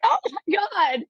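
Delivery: high, slow, stunned "oh my God"; retold amazed delight. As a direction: let it rise up in disbelief and joy. Guest finally says yes.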